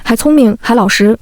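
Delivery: lightly mocking singsong; a hint of snide parroting; sarcastic mimicry. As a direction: tease her words back in a snide tone. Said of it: "阴阳怪气地学我说话".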